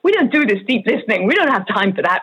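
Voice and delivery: slightly hurried mock American accent; dismissive Hollywood boss in a faint American accent; bad American accent. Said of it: "Good accent, good accent".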